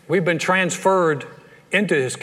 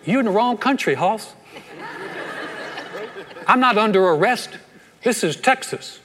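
defiant shouting; 5 semitones higher than usual. Pretend. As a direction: yell them off your doorstep, half laughing. Defying pretend arresting officers.

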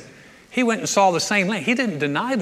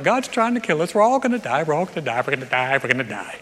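mock panic. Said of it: "they're like".

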